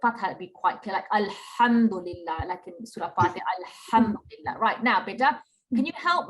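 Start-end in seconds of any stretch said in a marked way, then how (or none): 1.1-2.5 "alhamdulillah" with an airy h from mid-throat; sharp ha. Shown as a demonstration. Teacher giving an example of the throat letter, sharp-ha "alhamdulillah". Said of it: "we call it sharp ha". 3.9-4.6 "alhamdulillah" with a stressed, airy "ham" from mid-throat; sharp ha. Shown as a demonstration. Teacher repeating the example for the pupil, sharp-ha "alhamdulillah". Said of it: "we call it sharp ha".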